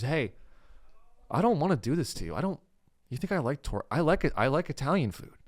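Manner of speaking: lightly voiced reluctant kidnapper; a hint of a polite torturer pleading his case; Todd. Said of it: "That's how Todd talks".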